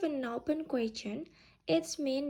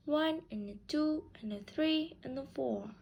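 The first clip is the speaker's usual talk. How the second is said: light "and a" leading into each stressed number; rhythmic count. Shown as a demonstration. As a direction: beat on One, two, three, four, with "and a" squeezed between. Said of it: "Let's practice with a rhythm".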